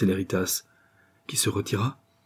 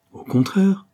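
insistent cry; 11 semitones higher, 4 dB louder, slower than usual. A narrator's reading. Daughter insists on knowing.

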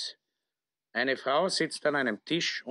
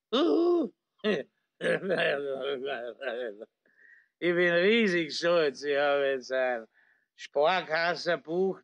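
put-on slurring drunk officer; town drunk. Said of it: "liegt betrunken im Coupé lallend".

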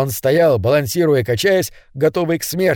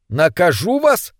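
surprised robot; 2 semitones higher, slower than usual. Acted. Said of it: "в его голосе прозвучало удивление".

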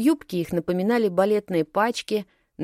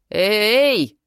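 loud yelled hey, pitched up; yelling; 5 semitones higher, 7 dB louder than usual. A narrator's reading. Narrator yells at the bullying snowflakes. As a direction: shout to break up the fight. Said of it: "завопила я".

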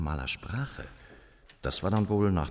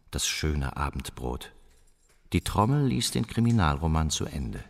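poem recitation; 3 semitones lower than usual. Acted. Recites poem-like lines slowly.

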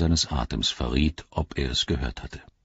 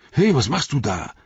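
raised suspicious call; 8 semitones higher, 3 dB louder than usual. A narrator's reading. Sam calling up to Gollum, suspicious and loud. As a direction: call up sharply at the creature. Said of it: "rief Sam".

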